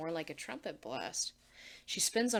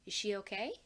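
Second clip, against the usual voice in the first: concerned; faster than usual. Acted. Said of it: "Marcy's concerned tone".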